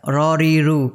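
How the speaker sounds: "র, রি, রু" with the R of English "run". Shown as a demonstration. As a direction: say "র, রি, রু" like the start of run. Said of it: "ইংরেজি run শব্দের আর এর মতোই রর উচ্চারণ". ("র, রি, রু", রান শব্দের আর-এর মতো)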